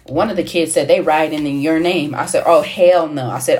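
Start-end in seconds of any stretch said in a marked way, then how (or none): 2.5-3.3 emphatic refusal. Retold or imitated. Refusing to be blamed for riot.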